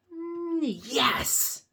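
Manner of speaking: high, loud "yes" after a held "mm"; emphatic exclamation. Acted. Piggy answering Gerald's guess, high excited exclamation. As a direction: hold back, then burst out high and loud. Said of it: "And we see an exclamation point".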